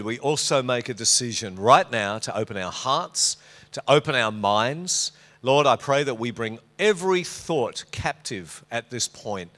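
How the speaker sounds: earnest, measured public prayer; spoken prayer. Real, not acted. Preacher praying as the word is opened, measured prayer. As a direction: lead the room in prayer, phrase by phrase.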